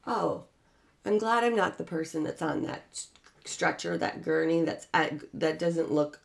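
softly sobered aside, as if thinking aloud; hushed relief. Acted. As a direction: drop to a soft, relieved murmur. Imagined relief passing an accident.

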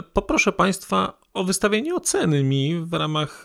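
usual speaking voice

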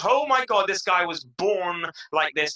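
high, loud gushing, slowing down; mock crowd awe. Packed crowd marveling at a speaker, acted awe. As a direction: imitate an awestruck fan. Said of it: "people are like".

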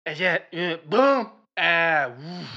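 loud grunting caveman gibberish; caveman talk. Acted. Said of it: "talking like a caveman".

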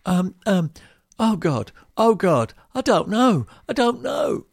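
high, loud flustered dithering; mock panic, rising as it goes. Homeowner flustered by the builder, high loud mock panic. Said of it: "And you go".

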